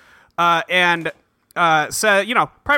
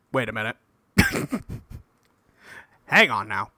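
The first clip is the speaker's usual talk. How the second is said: dawning realisation; 8 semitones lower, 5 dB quieter than usual. Retold or imitated. Slow realisation, lower voice.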